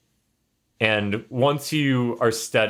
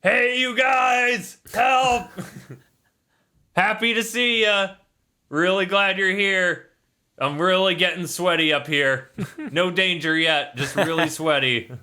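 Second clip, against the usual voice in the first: Grim's panicky voice; 9 semitones higher than usual. Acted. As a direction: yell for help from above. GM voices Grim hanging over cauldron.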